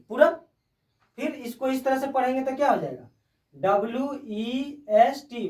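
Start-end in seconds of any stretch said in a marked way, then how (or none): 3.5-5.5 spelled out slowly. Shown as a demonstration. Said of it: "वेस्ट".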